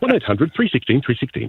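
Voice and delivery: announcer-style phone number read. Shown as a demonstration. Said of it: "I'll try something on the spot".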